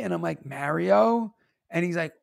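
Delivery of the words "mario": "Mario" with the a of "marry"; insisted own pronunciation. Retold or imitated. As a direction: repeat "Mario" as MARE-ee-oh, "marry" vowel. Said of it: "What word did you just say".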